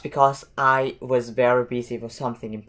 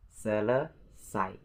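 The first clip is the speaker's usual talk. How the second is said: slow; 6 dB quieter, slower than usual. Shown as a demonstration. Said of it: "three syllables in this word".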